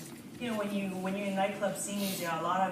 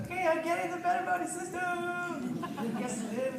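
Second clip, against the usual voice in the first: excited; 10 semitones higher than usual. Retold or imitated. Buying the system eagerly.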